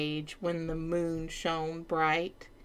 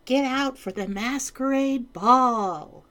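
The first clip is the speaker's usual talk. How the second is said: excited courtiers; 6 semitones higher, 6 dB louder than usual. Acted. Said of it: "cried the court".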